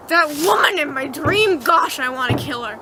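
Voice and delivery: mild mock fury, punched at the start; retold anger. Dreamer wakes up crying and angry, mildly indignant venting. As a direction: vent with a touch of exasperation. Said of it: "I'm angry".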